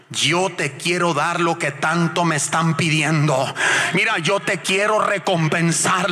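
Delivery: slow, measured divine voice, lightly voiced; voice of God. God promising the couple a reward, in a slow solemn voice. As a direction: speak each word slowly as God promising. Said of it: "oye la voz de Dios".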